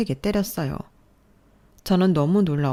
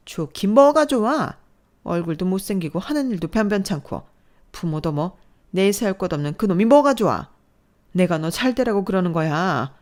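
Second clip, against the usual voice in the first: scornful anger; 3 semitones higher, 5 dB louder than usual. Acted. Mother dismissing boyfriend, scornful anger. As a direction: dismiss him with contempt.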